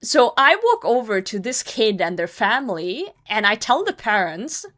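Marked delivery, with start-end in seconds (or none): none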